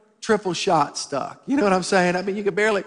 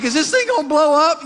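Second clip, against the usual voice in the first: mock panic; 7 semitones higher, 5 dB louder than usual. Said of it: "I'm like".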